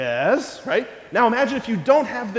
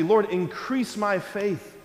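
earnest prayer; slower than usual. Shown as a demonstration. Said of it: "our prayer every day has to be".

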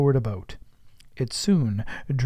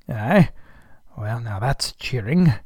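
cried out; 4 dB louder than usual. Acted. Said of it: "cried Ahab".

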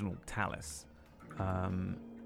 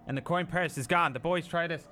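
higher, suspicious townsman voice; suspicious character voice; 7 semitones higher than usual. Acted. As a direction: accuse them of a trick, rising to a shout. NPC accusing party of trickery.

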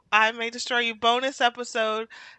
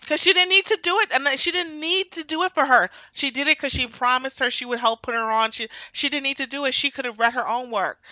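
worked-up rant; 4 semitones higher than usual. Real, not acted. Ranting about friend's sacrifice.

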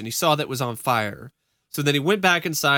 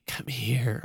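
creepy ghost voice; 2 semitones lower, 6 dB quieter than usual. Retold or imitated. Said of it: "creepy, ghostly female voice go".

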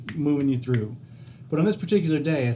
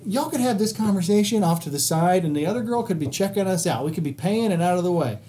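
higher, exasperated imitation; impatient inner plea; 4 semitones higher than usual. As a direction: scold the cashiers in his head. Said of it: "I'm like".

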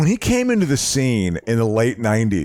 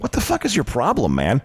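staged anger. Retold or imitated. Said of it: "he was acting up pretty well".

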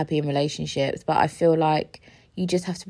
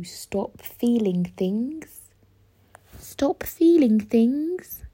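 slow, rising disbelief; incredulous question; 5 semitones higher, much slower than usual. Real, not acted. Asked of critics, slow and disbelieving. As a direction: ask it slowly as if it's absurd.

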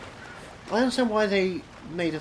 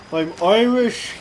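mock Irish accent; 5 semitones higher, 5 dB louder, slower than usual. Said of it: "do my Brooklyn accent coming out".

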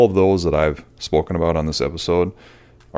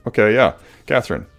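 mock sheepish recovery, higher and louder; a playful "oh, okay" as he catches his slip; sheepish self; 7 semitones higher, 5 dB louder than usual. Husband to wife after her correction, in a higher, louder, sheepish mock voice. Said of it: "I'm like".

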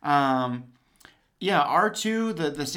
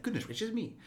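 higher, softer prissy exclamation; C-3PO voice; 8 semitones higher, 7 dB quieter than usual. Retold or imitated. Quoting C-3PO to a fellow fan. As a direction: gasp it like a startled butler droid. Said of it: "And he's like".

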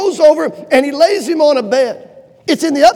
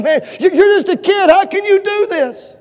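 laughing, higher scoffing voice; mocking laugh; 9 semitones higher, 5 dB louder than usual. Saul scoffing at young David, laughing. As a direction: scoff at the boy while laughing. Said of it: "And Saul said".

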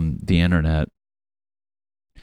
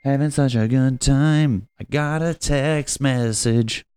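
sarcastic cheer; 6 semitones higher, slower than usual. Acted. Mock cheery line then text.

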